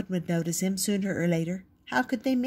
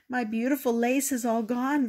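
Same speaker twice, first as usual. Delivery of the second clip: crying; 6 semitones higher than usual. A narrator's reading. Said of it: "Victor cried".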